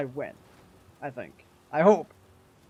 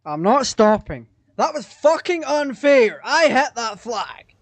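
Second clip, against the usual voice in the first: angry rant; 2 semitones higher, 6 dB louder than usual. Real, not acted. Angry complaint after unfair loss.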